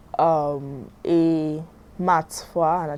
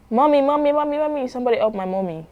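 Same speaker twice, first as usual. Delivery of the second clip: put-on child crying out for mommy, pitched higher; a little girl's frantic call for help, fading into a fast plea; panicked child; 5 semitones higher, faster than usual. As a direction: daughter begging strangers to help her mother, panicked. Child panics as mother collapses.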